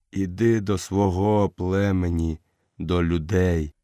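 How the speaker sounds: fading leader speaking gently; lightly voiced old wolf, weak and low; dying old wolf.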